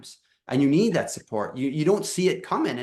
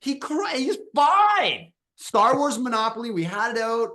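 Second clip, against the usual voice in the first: laughing disbelief; 8 semitones higher than usual. Real, not acted. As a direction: laugh through the brag. Laughing incredulous about five-year-old.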